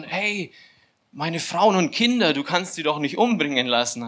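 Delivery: retold desperate objection, starting high; panicked plea. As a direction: plead in mock panic for wife and children. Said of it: "so ein totaler Panikmodus irgendwie".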